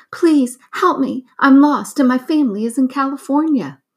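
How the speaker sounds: high, fast, pleading parrot voice; talking parrot. A narrator's reading. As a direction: panicky little bird, high and quick. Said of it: "the parrot asked".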